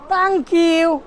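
put-on 'tank yoo' in an Arabic accent. Teacher explaining the missing th, Arabic accent. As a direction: harden the TH to T like an Arab. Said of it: "আরবিতে থা উচ্চারণ হয় না".

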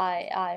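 "I" said light and short; unstressed I. Shown as a demonstration. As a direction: keep "I" free of stress. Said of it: "ไม่เน้นเหมือนเดิมนะคะ". (พูด I เบาๆ ไม่เน้น)

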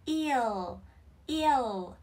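"Eel" with long ee closing on a clear final L; tongue-tip final L. Shown as a demonstration. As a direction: end "Eel" with the tongue up behind the upper teeth. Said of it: "lưỡi chạm lên thân răng hàm trên". ("Eel" kéo dài, lưỡi chạm răng trên ở âm L cuối)

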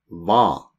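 Hva said as va, no H; silent H. Shown as a demonstration. Teacher to learners, saying Hva with a silent H. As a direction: drop the H in Hva. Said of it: "H-en er stum".

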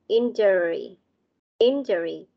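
injury said IN-juh-ree; stress on first syllable. Shown as a demonstration. Teacher correcting a missed stress, injury stressed on the first syllable. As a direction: model injury leaning on the opening "IN". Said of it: "Chúng ta sẽ nhấn vào".

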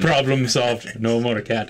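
put-on lightly done Russian accent; deadpan, with a hint of Russian accent; mock Russian accent. Player joking about the axe and the cat, mock Russian accent. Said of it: "We all speak with Russian accent".

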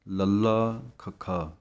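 ਲੱਲਾ ਖੱਖਾ named slowly letter by letter; spelled out. Shown as a demonstration. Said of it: "ਅੱਧਕ ਲਗਾ ਕੇ ਬੋਲਣਾ ਹੈ". (ਲੱਲਾ ਖੱਖਾ ਹੌਲੀ)

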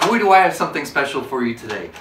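loud, showy presenter build-up; hyped host voice. Acted. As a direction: sell it like an infomercial host.

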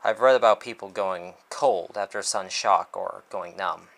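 measured dramatic first-person narration; story narration. A narrator's reading. Author reads a detective story aloud, measured narration. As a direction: read it like a detective novel.

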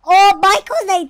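loud, high, drawn-out exclamation; amazed shout. Real, not acted. Gamer finds he has powers, amazed shout. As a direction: cry it out slowly and loud.

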